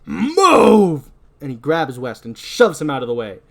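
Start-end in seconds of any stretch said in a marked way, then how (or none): 0.1-1.1 loud, high, drawn-out order; forceful shout. Acted. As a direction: shove him aside with your voice. Acted confrontation, shoving West aside.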